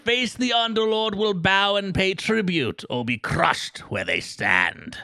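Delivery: put-on high, slow, strained old storyteller voice; Old Man Gillywinkle. Reading game lore to his co-host as a high, slow old man. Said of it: "Old Man Gillywinkle?".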